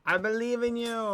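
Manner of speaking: low, loud cheerleader; deep cheering voice. Acted. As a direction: boom encouragement deep. Mock cheering.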